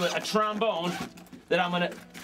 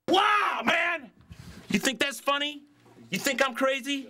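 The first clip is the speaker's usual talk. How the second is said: mock crazy whoop; 9 semitones higher than usual. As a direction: whoop it out like a madman pitchman. Crazy pitchman whoops after jump.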